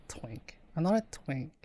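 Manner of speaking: embarrassed whisper under breath. Real, not acted. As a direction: mutter it to yourself in a whisper.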